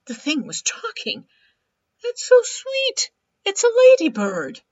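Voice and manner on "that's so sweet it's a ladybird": raspy cawing crow. Acted. Crow gushing.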